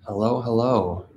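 ordinary talk

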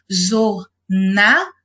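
"jornada" slowly broken into jor, na, da, with NA brought out; split into syllables. Shown as a demonstration. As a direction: pause between each syllable of "jornada". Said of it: "O na é a sílaba tônica".

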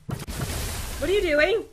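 slow, slightly low question; unhurried, drawn-out asking. Real, not acted. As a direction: stretch the question out slowly. First take of repeated question.

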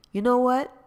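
spring it on him; sassy exclamation. Acted. Gina brushing off Jamal on the phone, sassy.

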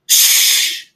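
unvoiced hush; whispered shush. Giver hushes Jonas.

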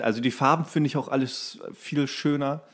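normal talking voice

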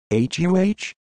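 high, startled huh; confused huh. Retold or imitated. Girl baffled by the guy's question, high huh. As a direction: blurt it out puzzled. Girl reacts mid-scene.

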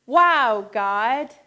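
excited exclaim. Shown as a demonstration. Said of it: "open your hands and say".

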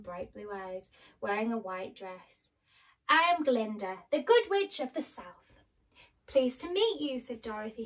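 storybook reading voice, lively and expressive; story narration. Acted. Reading a birthday story to Mum, storytelling voice. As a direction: read it like a bedtime tale for Mum.

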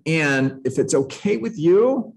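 gently deferential request; apologetic. Shown as a demonstration. Agent answering a client who isn't ready, apologetic. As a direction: ask permission as if sorry to intrude. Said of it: "you hear the apologetic tone in my voice".

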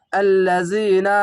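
আল্লাযিনা stretched very slowly, each syllable drawn; slow recitation. Shown as a demonstration. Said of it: "যেরকম এই শব্দটা". (আল্লাযিনা ধীরে টেনে তিলাওয়াত)

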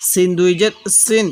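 "সিন" with a pressed, thin s; pressed, thin seen. Shown as a demonstration. Teacher models the letter without a dot, pressed and thin "সিন". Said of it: "আওয়াজটা চাপ দিয়ে চিকন করে পড়ব".

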